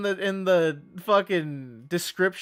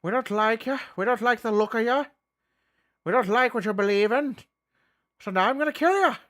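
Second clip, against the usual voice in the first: raised, quick caricature of a menacing Catholic; mock Catholic zealot; 7 semitones higher, 4 dB louder, faster than usual. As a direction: threaten like a hammed-up intolerant Catholic. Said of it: "that's my Catholic impression".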